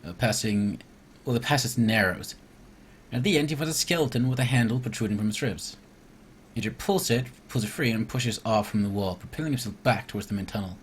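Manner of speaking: steady storybook narration, falling at line ends; story narration. Acted. Player reading the cave swim to viewers, narrating. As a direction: read the adventure text aloud evenly. Reads the game's scripted event aloud.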